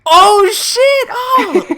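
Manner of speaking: loud, high, thrilled shout; excited shout. Real, not acted. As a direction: blurt it out in delight. Excited reaction to shared band.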